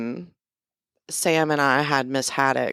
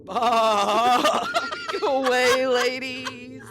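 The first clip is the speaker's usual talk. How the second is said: slow, high roaring beast voice; monster roar; 9 semitones higher, much slower than usual. Acted. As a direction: drag it out like a roaring sheep monster. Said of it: "it roared".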